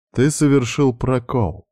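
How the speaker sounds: slow, lecturing explanation; mentoring tone. A narrator's reading. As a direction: instruct him like a stern mentor. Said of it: "менторским тоном пояснила". (менторским тоном, неторопливо)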